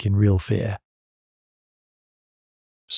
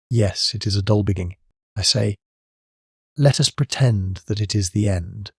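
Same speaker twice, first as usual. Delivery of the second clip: gloomy. A narrator's reading. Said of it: "he said gloomily".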